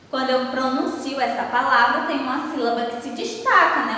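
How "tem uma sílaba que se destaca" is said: ordinary talk, nothing marked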